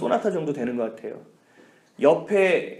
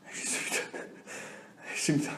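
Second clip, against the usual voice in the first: meek agreement; 12 dB quieter than usual. Retold or imitated. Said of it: "렌트비까지 당신이 다 대라고".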